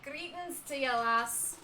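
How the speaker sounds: loud, hammed-up pirate greeting; put-on pirate brogue; bad pirate accent. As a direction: play a pirate innkeeper with a shaky grip on the accent. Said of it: "this accent is going to go all over the place".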